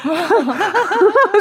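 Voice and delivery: high burst of laughter; big laugh. Real, not acted. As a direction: laugh out loud, delighted. (크게 터지는 웃음)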